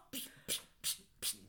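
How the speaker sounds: tonlos gezischtes Psst, ganz leise; zischendes Pssst. Acted. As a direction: wie jemanden mit Zischen zum Schweigen bringen. Bringt Kollegin zum Schweigen. (leise gezischtes Psst, um die Kollegin zum Schweigen zu bringen)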